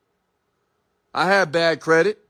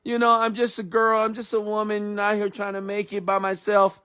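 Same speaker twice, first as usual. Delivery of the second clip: lightly raised, pleading mock voice; a hint of a helpless girl; mocking whiny woman; 4 semitones higher than usual. Mocking women who switch to a victim role, in a mild pleading voice. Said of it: "Then you wanna be".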